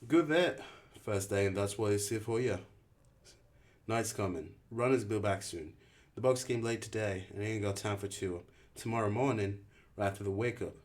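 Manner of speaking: a hint of a hard camp leader; curt rule-giving. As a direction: bark out the rules fast. Albie voiced.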